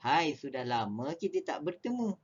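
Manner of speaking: gentle happy hai; friendly greeting. Shown as a demonstration. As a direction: greet an old friend gladly. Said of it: "Dua perbezaan intonasi".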